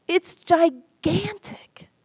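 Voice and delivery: high, slow, breathless whisper of wonder; awed whisper. Acted. Ocean frog whispering to the well frog how vast the sea is, in awe. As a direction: hush it like a huge secret.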